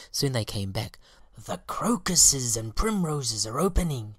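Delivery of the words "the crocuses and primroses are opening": high, loud bee scouts; reporting scout bees. A narrator's reading. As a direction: report back eagerly. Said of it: "they reported".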